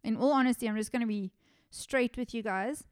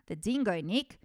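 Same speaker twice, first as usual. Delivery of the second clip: lightly imitated Australian accent, rising at the end; a hint of an Australian accent. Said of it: "like, an Australian accent".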